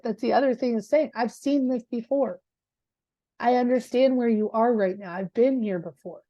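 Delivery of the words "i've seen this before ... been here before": softer, slower reassurance. Shown as a demonstration. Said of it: "you say that with a slower tone".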